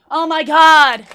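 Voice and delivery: high, loud, mock-outraged viewer; mocking objectors. Streamer mimicking viewers objecting to broken keyboard, mocking objectors. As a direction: whine it high as a scandalized complainer. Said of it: "before anybody says".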